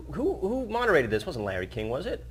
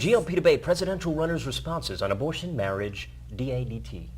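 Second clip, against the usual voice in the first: political news voice. Pretend. Co-host shows off a headline read, news voice. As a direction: read it like a self-important news anchor. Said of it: "get in my news political voice".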